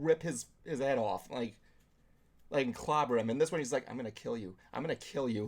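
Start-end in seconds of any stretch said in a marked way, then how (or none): 3.9-5.4 lightly imitated, understated death threat; passive threat. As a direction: threaten passively, with barely any push. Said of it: "Like, friggin' more passive".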